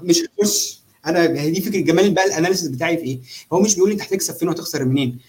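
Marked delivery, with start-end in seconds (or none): 0.0-0.8 much higher, insistent no; emphatic refusal. Real, not acted. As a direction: refuse it with a high insistent push. Firmly refusing to buy in.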